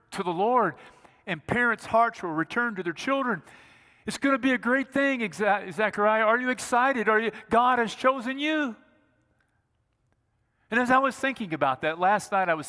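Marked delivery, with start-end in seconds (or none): 4.0-8.7 high, eager angel voice; the angel bursting with news for Zechariah; a lightly voiced angel full of excitement; excited angel.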